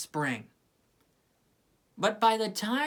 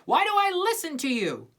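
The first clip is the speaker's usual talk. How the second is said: higher, indignant rant; fuming; 6 semitones higher than usual. A narrator's reading. Sally fuming at Linus, higher and indignant. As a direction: vent your betrayal. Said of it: "she fumed".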